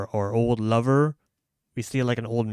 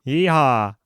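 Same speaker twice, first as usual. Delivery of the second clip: Western yeehaw; 3 semitones higher, 9 dB louder than usual. Retold or imitated. Echoing his friend's cowboy cry, Western accent. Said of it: "you have to speak only in accents".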